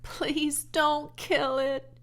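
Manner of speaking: high, slow, tearful begging; pleading child near tears; sobbing plea. A narrator's reading. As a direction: beg through sobs. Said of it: "she sobbed".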